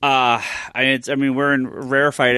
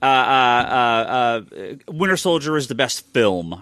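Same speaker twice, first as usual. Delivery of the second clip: drawn-out snooty film snob; slow, lofty film-critic hum; slower than usual. Retold or imitated. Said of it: "wanna have that snooty voice".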